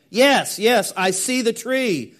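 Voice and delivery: high, eager cry of yes, yes; excited friend. Acted. Friend at the train window telling the son he sees the tree, eager. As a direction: call it out like he spots it at last. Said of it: "the friend said".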